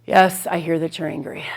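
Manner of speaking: flat, dismissive brush-off; bored, going-through-the-motions validation. Shown as a demonstration. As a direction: say it like you don't care. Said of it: "you might as well say nothing at all".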